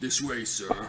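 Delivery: croaked words in a large man's voice. Game narrator voices a large man stepping in front of the arriving player: impossibly deep croak. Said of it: "He croaks in an impossibly deep voice".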